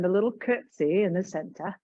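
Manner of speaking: lightly put-on English accent; mock English accent, badly faked; terrible English accent. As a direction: playfully attempt a bad English accent. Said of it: "That is my terrible accent".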